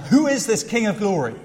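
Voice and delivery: crowd calling out. Retold or imitated. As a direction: call it out to the gates. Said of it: "people called out".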